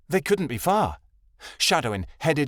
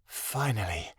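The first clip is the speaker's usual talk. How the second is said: dramatic; 3 semitones lower, 8 dB quieter, slower than usual. A narrator's reading. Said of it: "Amira said dramatically".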